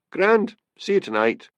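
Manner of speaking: high, affectionate phone goodbye; warm, affectionate. A narrator's reading. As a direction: say it fondly, pitched well up. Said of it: "Her voice had been warm and affectionate".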